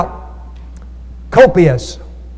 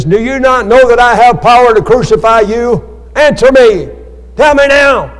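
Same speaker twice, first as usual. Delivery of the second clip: Pilate's commanding challenge, rising louder; demanding Pilate; 4 semitones higher, 3 dB louder than usual. Retold or imitated. Pilate threatening Jesus, in a loud demanding voice. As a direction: press him hard, demand an answer.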